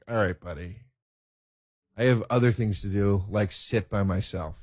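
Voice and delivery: low, softened dismissal; mild brush-off. Retold or imitated. Musician excusing himself from a fan who kept talking, muted brush-off. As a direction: let the fan down quietly and wearily.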